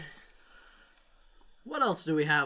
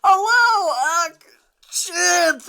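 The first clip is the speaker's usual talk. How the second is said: imitating Sam; 13 semitones higher, 12 dB louder, much slower than usual. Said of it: "the next thing I hear is".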